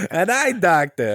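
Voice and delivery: imitating a New York Jewish accent, slow. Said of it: "Why the New York Jewish accent?".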